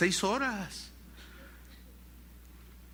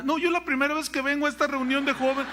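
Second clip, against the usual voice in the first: much higher, near tears, mock girl's plea; upset girl; 6 semitones higher, faster than usual. The rescued girl accusing a pastor, tearful high voice. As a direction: whine like a frightened teenager.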